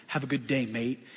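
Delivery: mock-condescending, low and soft send-off. Florist patting the pastor's shoulder, condescendingly. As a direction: imitate a patronizing goodbye, dropped low and quiet. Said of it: "all condescending".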